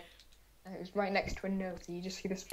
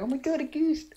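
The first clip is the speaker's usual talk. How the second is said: high, raised startled exclamation; mock amazement, pitched up and louder; shocked reaction; 7 semitones higher, 5 dB louder than usual. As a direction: act out a startled gasp of recognition. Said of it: "That was our reaction".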